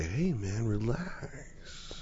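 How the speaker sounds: imitated laid-back child. Youngest child telling heated parent, mellow soothing. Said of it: "my youngest favorite thing to do when I start to get heated".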